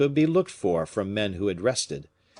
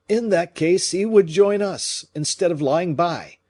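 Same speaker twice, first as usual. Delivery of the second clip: agitated; 9 semitones higher, 7 dB louder than usual. Acted. Fouquet agitated argument.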